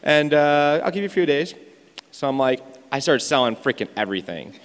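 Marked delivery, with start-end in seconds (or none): 0.0-1.5 imitating a breezy lady; dismissive brush-off. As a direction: wave it away like it's nothing. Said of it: "And she's like".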